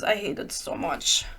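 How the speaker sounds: breathy whisper of disgust; whispered aside. Real, not acted. Booktuber whispering her hatred of a word. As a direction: hiss it under your breath.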